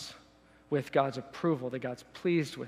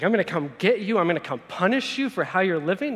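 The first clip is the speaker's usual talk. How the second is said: mock threat; 3 semitones higher, 5 dB louder than usual. What Jesus isn't saying to the rich, mock menace. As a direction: play at threatening punishment.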